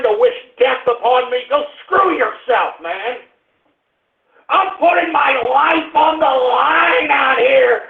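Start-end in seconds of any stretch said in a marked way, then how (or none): 4.5-7.8 slow, raised, near-tearful protest; pleading outrage, voice cracking upward; angry cry. Real, not acted. Host protesting he risks his life for the broadcast, angry cry. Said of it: "it just gets me angry".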